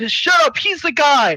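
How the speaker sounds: heated retort, hammed up; mock angry shout. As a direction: shout them down in a mock quarrel. Retold quarrel.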